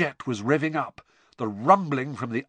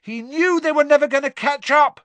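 high, loud shout back; raised, high-pitched retort; shouting over noise; 13 semitones higher, 7 dB louder than usual. A narrator's reading. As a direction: argue back above the crowd. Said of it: "shouted back over all the noise".

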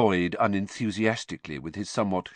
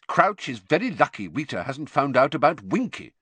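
irritable; 6 semitones higher, 4 dB louder than usual. A narrator's reading. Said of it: "said Mister Weasley irritably".

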